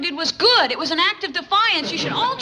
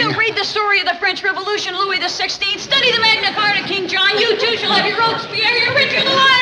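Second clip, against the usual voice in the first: grand oration; 5 semitones higher than usual. Acted. Grand warning to the tycoon.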